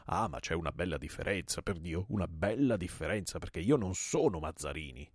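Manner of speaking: mildly emphatic objection; attempted protest. Host arguing he differs from the enemy, protesting. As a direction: try to stand up for yourself. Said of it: "tentando di insorgere".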